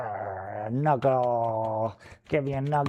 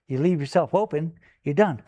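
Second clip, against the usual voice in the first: mock taunt; 4 semitones higher, 5 dB louder than usual. Play-fighting with the dog.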